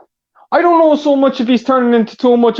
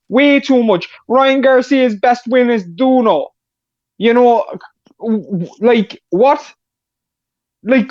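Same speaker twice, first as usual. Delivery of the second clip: put-on Irish brogue drifting towards a Jamaican accent; Irish accent turning Jamaican. Caller disputing a boxer's record, Irish accent slipping into Jamaican. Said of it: "it's turning into a Jamaican accent".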